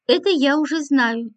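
a touch of impatience, lightly pushed; mildly impatient reply, not fully acted. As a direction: hurry her along, mildly irritated. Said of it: "нетерпеливо сказал".

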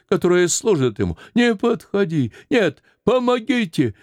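put-on high, pleading old woman crying for mercy; terrified plea. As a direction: beg for life, rising to cries for help. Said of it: "закричала от страха". (старуха в страхе кричит, высоко)

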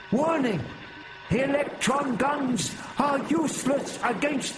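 very high, slow, clipped insect radio call; high-pitched treble call. A narrator's reading. Prapillus radios a warning to main force in high treble. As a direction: call it out in a shrill alien treble. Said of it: "called in his high-pitched treble".

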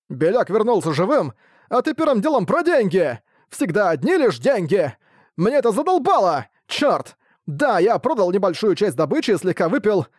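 put-on high, shouting drunk tirade; drunken rant. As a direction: yell your grievances, tipsy and fed up. Drunk merchant rants at Ark. (пьяная тирада, высоким криком)

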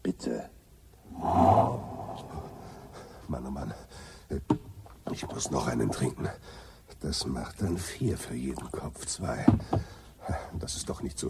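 put-on low, soft drunken muttering; drunken mumble. Zafford mumbling to himself over his drinks, low and soft. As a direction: mumble it to yourself, sloshed.

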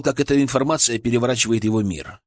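plain reading voice

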